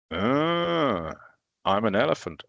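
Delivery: a hammed-up trumpeting elephant for kids; mock elephant call, then the line. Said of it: "not very good at all".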